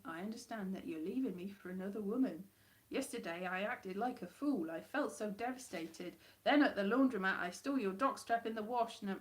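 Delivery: understated northern accent attempt; failed northern English accent. Shown as a demonstration. Performer reads a break-up monologue, shaky grasp of northern accent. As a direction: read it in a badly faked northern accent. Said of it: "especially not in an accent I can't do".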